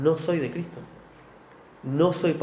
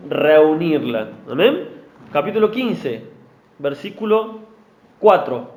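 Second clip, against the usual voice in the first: ordinary delivery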